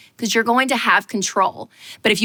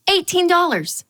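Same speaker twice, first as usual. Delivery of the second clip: a raised, disbelieving read; stunned; 8 semitones higher than usual. Retold or imitated. Reading an absurd lemonade price, raised and stunned. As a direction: clock the price with a jolt.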